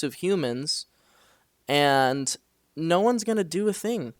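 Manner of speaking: upset rant. Retold or imitated. Retold fight with her, self quoted.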